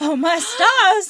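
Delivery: high, slow, gasping Southern belle drawl; a scandalized Southern lady clutching her pearls. Pretend. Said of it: "so I'm just gonna do Southern".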